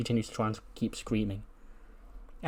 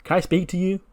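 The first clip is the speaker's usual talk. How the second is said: Charlotte's demand; 7 semitones higher than usual. Retold or imitated. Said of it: "she goes".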